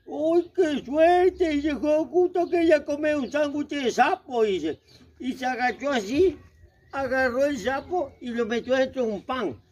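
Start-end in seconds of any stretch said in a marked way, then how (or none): 0.1-4.4 slow, gleeful lightly voiced monster; a hungry monster delighted at his luck; greedy monster. Monster gloats over a frog sandwich, lightly voiced. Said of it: "el monstruo lo mira y dice".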